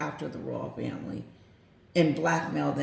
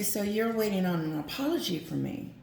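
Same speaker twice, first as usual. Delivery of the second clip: lightly voiced Charles, a bit higher; mild Charles; 4 semitones higher than usual. Charles asking Meghan about the apology, lightly voiced. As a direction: ask it as a hint of the king. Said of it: "I'm gonna be Charles".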